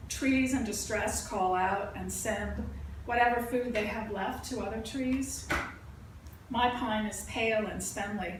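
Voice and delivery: deliberate, evenly paced verse recital; poetry reading. Acted. Poet reading about life in the forest, measured recital. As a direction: recite it with pauses at the line breaks. Reads own poem aloud.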